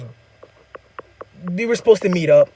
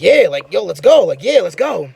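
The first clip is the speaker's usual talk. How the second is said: louder, instantly up for it; eager agreement; 2 semitones higher, 7 dB louder than usual. Retold or imitated. Speaker retelling his instant yes to the invite, eager. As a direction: jump at the offer, voice leaping on each phrase. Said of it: "I'm instantly like".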